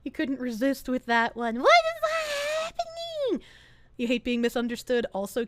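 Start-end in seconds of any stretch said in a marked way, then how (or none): 1.6-3.5 high startled squeak; real high disbelief; shocked squeal. Real, not acted. Sudden shock at chat.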